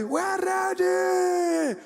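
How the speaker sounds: very high, drawn-out rally shout; long stretched mass chant; crowd response. Retold or imitated. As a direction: answer as a roaring crowd of supporters. Crowd answers the rally leader.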